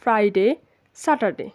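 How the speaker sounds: "ফ্রাইডে, স্যাটারডে" with short "de" endings; wrong pronunciation. Shown as a demonstration. Teacher listing forms never to say, everyday mispronunciation. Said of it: "আমরা কখনো বলবো না".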